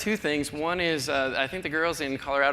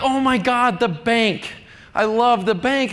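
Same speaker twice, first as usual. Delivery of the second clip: higher, louder mock gushing; gushing fan; 6 semitones higher, 7 dB louder, slower than usual. A fan gushes about the movie to the speaker, louder mock voice. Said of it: "and they're like".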